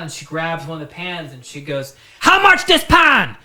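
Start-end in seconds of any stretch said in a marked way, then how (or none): 2.2-3.4 loud, high, slow barked Asian-accent imitation; mock Asian-accented customer, abrupt and shrieking; thick mock Asian accent. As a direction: shout it in a hammed-up Asian accent. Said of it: "she had a very thick, like, an Asian type thing".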